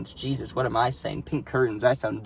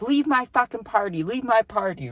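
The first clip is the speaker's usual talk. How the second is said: mock screaming; 8 semitones higher than usual. Teller imitates party host throwing guests out, mock screaming. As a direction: mimic her screechy outrage at normal volume. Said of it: "She's just screaming".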